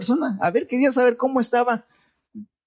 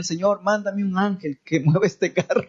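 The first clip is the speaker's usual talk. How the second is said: retold crying prayer. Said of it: "estaba llorando".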